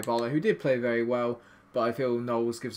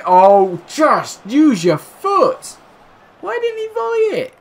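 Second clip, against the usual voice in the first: much higher, stretched-out exasperated plea; voice going very high; 13 dB louder, slower than usual. Real, not acted. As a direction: let your voice climb way up in frustration. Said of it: "Why does my voice go so high?".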